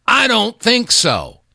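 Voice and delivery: high, slow scoff; drawn-out, incredulous I don't think so; scoffing dismissal. Real, not acted. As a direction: shoot the idea down slowly. Rhetorical answer to own question.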